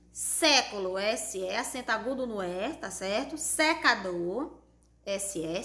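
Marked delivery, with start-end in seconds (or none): 3.4-4.6 slow dictation. Shown as a demonstration. Teacher dictating words for spelling.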